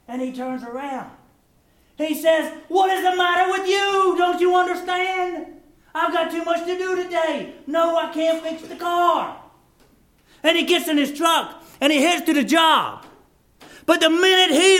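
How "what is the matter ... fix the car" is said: angry husband retort. Retold or imitated. Husband snaps at wife in story.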